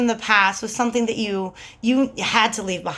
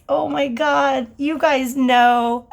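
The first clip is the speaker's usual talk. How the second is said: excited shout; 4 semitones higher, slower than usual. Real, not acted. Excited about Game of Thrones.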